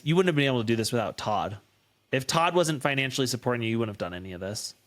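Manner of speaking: quick, low, dismissive jab at the daughter; cold dismissive mom. Retold or imitated. Mother's cutting remark, retold.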